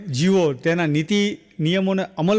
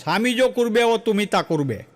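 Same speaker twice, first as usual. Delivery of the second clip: put-on Bengali accent; 3 semitones higher than usual. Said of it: "Bengali ભાષા બહુ સરસ".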